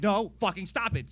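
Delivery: loud, high telling-off; mock exasperated scolding. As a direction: yell at the cat, playing fed up. Escalating scolding of the cat.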